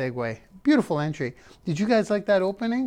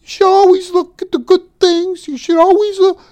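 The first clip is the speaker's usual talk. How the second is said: high, loud preachy sermon voice; mock preachy lecture; 11 semitones higher, 7 dB louder than usual. Mocking the usual advice he refuses to preach, high and preachy. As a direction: parody a know-it-all preacher. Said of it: "instead of just preaching".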